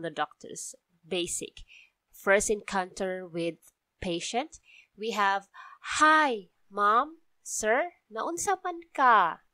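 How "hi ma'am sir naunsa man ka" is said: higher, gentle bedside greeting; caring doctor's tone. Shown as a demonstration. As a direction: greet the patient kindly, like a doctor. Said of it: "Usually that's the accent, the tone of voice".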